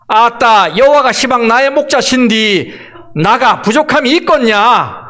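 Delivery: 조금 크게, 어색한 전라도 사투리 흉내; 아따로 시작하는 서툰 전라도 말투; Jeolla dialect. Shown as a demonstration. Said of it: "전라도 버전입니다". (전라도 사투리를 가볍게 흉내 내어)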